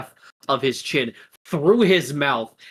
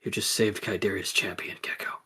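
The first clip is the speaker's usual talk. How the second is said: hushed reveal; 3 semitones lower, 6 dB quieter, faster than usual. Acted. Solemn reveal to child.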